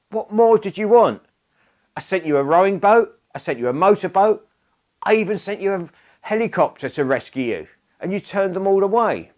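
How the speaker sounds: listing the rescues with mock disbelief; exasperated God. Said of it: "And God says".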